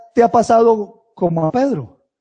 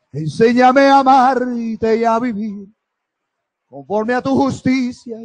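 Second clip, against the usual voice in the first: impassioned worship, swelling and drawn out; fervent prayer; 4 dB louder, slower than usual. Acted. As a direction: pour out devotion, stretching the words as it rises. Fervent prayer of adoration, building.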